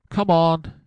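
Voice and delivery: high, loud rallying call; urgent cry. A narrator's reading. Connors rousing his men to move, urgent cry. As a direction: cry it out to spur the others on. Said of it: "cried Connors as he rose".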